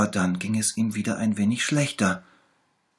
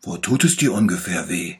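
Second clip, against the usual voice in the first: lightly voiced little bear, louder; 8 dB louder than usual. A narrator's reading. Little bear promises to heal the tiger, louder. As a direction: promise it brightly like a small doctor. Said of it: "fragte der kleine Bär".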